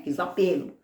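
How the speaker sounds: ordinary delivery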